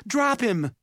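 high, forceful shout; urgent yelled command. A narrator's reading. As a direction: yell it as an emergency order. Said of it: "Simon yelled".

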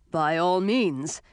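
slow, forceful royal exclamation; exclaiming king. Acted. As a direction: declare it like a commanding king. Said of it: "exclaimed King Bodemon".

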